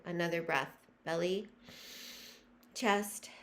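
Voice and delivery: measured meditation leading with long pauses; guided breathing meditation. Real, not acted. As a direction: guide listeners breath by breath, letting phrases stretch.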